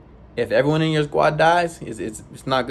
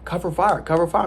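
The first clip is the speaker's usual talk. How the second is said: higher pitched, urgent yell of a command; 5 semitones higher than usual. Retold or imitated. Recruit yelling to his squad for cover fire, higher and urgent. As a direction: shout it out across the range in a panic. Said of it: "I'm yelling".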